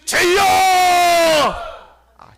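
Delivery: high loud 주여; loud prayer cry. Shown as a demonstration. Pastor leading congregation, high loud cry. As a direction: lead the congregation's shout. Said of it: "다시 한번".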